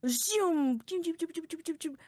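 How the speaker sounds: high, quickening zoom-zoom sound effect; portal zoom noise. Pretend. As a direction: make a portal whoosh out of zooms. Voices the portal opening.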